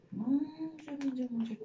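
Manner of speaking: exasperated oh my God. Real, not acted. Struggling to tie hair.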